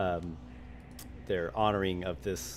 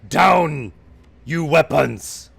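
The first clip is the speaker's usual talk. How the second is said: booming, high-pitched command; ogre shout; 7 semitones higher, 12 dB louder, much slower than usual. Acted. Ogre orders Hakeem and Dorothy to disarm, shouting. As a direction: bellow it as an ogre, word by word. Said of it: "The ogre shouts in the general direction".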